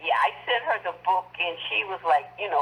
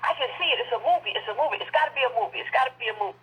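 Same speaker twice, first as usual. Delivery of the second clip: excited quote; 5 semitones higher, faster than usual. Retold or imitated. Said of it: "she's like".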